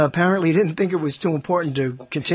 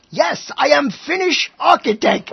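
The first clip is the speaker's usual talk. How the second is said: mock Finnish reply; 8 semitones higher, 4 dB louder, slower than usual. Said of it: "It says".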